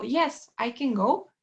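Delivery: slow, stress on "I" with "can" unstressed. Shown as a demonstration. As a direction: lean on "I", pass lightly over "can". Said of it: "es como empiezo en el I". (énfasis en «I», «can» átono)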